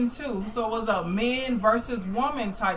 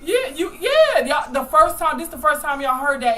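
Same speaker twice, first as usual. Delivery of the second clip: hyped up; 5 semitones higher, 5 dB louder than usual. Real, not acted. Hyping the crowd, rising energy.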